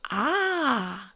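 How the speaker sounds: short imitated crow call; crow cry. Shown as a demonstration. Showing viewers what local crows sound like, imitated call. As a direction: make a short harsh "ah" like a crow. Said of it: "It sounds more like".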